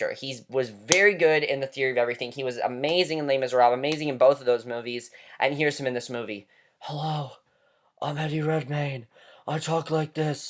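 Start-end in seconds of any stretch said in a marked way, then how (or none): 6.8-10.5 soft, raspy voice like a heavy smoker. Mocking an actor's performance in a movie, doing an Eddie Redmayne smoker-voice impression. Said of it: "how much he sounded like a smoker".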